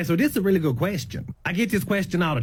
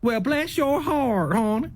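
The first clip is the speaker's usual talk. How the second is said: sweet Southern; 4 semitones higher, slower than usual. Shown as a demonstration. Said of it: "Don't get that confused".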